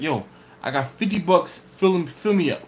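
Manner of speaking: a hint of the Yonkers buyer's hype; eager customer. Customer handing over fifty bucks, mildly put-on eager voice.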